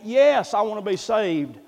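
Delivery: mildly emphatic, lifted "yes". Retold or imitated. Convert says they want to be saved, mildly emphatic. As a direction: lean on "yes" as a retold eager answer.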